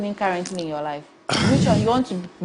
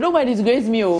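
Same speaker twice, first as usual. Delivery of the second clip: louder, higher mock motherly warning; mock-scolding mum, pitched up; imitated mother's warning; 4 semitones higher, 4 dB louder than usual. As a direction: lightly voice a mother warning her child. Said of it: "So she said".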